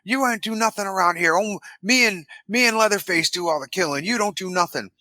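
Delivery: a hint of a griping hillbilly; imitating the hitchhiker. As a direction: complain at the cook in a slightly put-on voice. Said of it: "this is where the hitchhiker's like".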